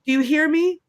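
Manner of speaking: half-yell a protective threat, imitating; imitated yelling. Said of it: "when he was yelling at Willie".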